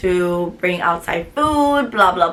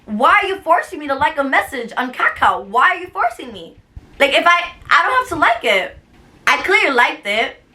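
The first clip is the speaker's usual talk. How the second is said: retold frustrated protest; 4 semitones higher than usual. Acted protest in a quarrel.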